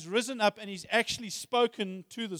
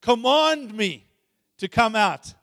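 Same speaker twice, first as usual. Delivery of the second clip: earnest plea; 5 semitones higher, 11 dB louder, slower than usual. Retold or imitated. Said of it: "He said".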